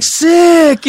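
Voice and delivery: high, loud, drawn-out mock approval; retold overdone cool reaction; playing it off. Newcomer trying to play off a murder charge, loud high bluff. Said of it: "tried to play it off".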